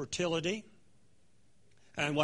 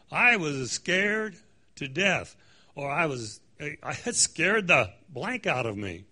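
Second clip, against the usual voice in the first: slang expression; 4 dB louder, slower than usual. Retold or imitated. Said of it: "they say it in a slang way".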